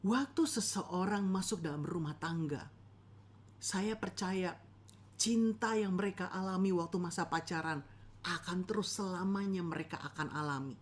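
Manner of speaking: lightly voiced sugary preacher; a hint of an overpromising sermon, rising at the end; mock earnest preacher; preacher impression. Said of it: "ada pengkhotbah yang bilang begini".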